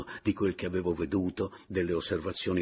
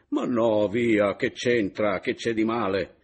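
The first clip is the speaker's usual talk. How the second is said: comforting; 4 semitones higher, 7 dB louder than usual. A narrator's reading. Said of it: "cercò di confortarla".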